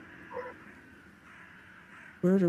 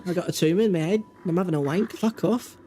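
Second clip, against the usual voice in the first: amateur Scouse with a Scottish tinge; Scouse accent; 3 semitones higher than usual. Shown as a demonstration. Trying out Scouse for the friends, Scouse accent. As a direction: have a go at sweary Scouse. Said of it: "Let me look up the Scouse accent".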